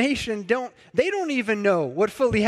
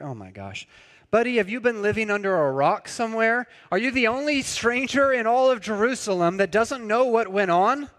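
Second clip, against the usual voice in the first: mildly sarcastic, quicker disbelief; 2 semitones higher than usual. Retold or imitated. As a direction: act amazed the stranger knows nothing. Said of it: "I sense a bit of sarcasm in his answer".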